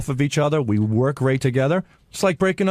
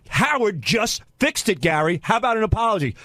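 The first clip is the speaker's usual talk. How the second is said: smug demand; 4 semitones higher than usual. Retold or imitated. Retold demand in office fight.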